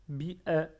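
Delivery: BI-A said as "bi-è"; correct "è" sound. Shown as a demonstration. Learners hear the alif again, BI-A as "bi-è". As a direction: end BI-A on "è" instead of "ah". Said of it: "pas le son A".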